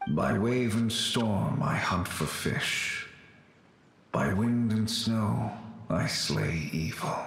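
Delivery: slow solemn vow. Acted. Pervases recites the Yaksha's creed as he vanishes, solemn. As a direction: recite it like a sacred oath. Solemn oath as ghost departs.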